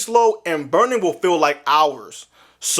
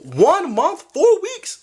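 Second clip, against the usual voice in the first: rising high disbelief; 11 semitones higher, slower than usual. Real, not acted. Vlogger balking at a month apart, sounding high and stunned. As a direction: squeak the numbers in shock. Incredulous at the question.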